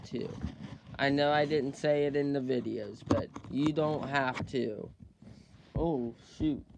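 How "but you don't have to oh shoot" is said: stuffy runny nose; talking through a blocked nose; nasal voice. Real, not acted. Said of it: "Sorry about my nose".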